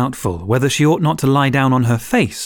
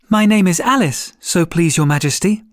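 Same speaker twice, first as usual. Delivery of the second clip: polite; 3 semitones higher than usual. Acted. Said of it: "very politely".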